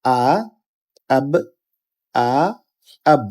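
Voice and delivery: আ alone, then আব closed on the b; joined sukun demo. Shown as a demonstration. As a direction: spell out আ, pause, আব as one short syllable. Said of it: "প্রথম হরফের সাথে এটা মিলিত হবে". (আ, আব: প্রথম হরফের সাথে মিলিয়ে উচ্চারণ)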